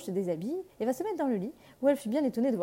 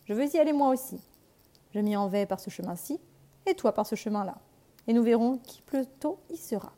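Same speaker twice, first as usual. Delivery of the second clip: louder, playful wolf's dare; wolf challenging; 5 dB louder than usual. Acted. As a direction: lay down a race like a cunning wolf. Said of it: "dit le loup". (loup malicieux qui lance un défi)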